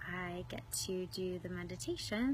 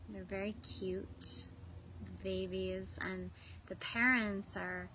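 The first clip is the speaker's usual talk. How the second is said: unhurried visualization, phrase by phrase; guided meditation. Real, not acted. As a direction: guide them inward with long, restful pauses. Leads swan pool visualization.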